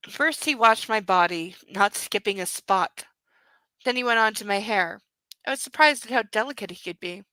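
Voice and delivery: reading a romance novel aloud; calm audiobook-style reading; story reading. Acted. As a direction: read the book passage steadily. Reads novel aloud to audience.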